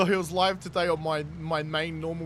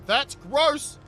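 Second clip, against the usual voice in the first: grossed out; 8 semitones higher, 9 dB louder than usual. Real, not acted. Disgusted reaction to chat.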